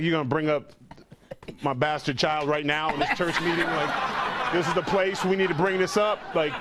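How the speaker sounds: embarrassed, rising to a shout; exasperated, building to yell. Retold or imitated. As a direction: start hushed and annoyed, end yelling. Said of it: "It's like".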